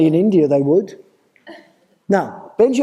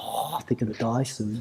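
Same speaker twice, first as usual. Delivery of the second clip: mock doom; 8 semitones lower, 11 dB quieter than usual. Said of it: "you go".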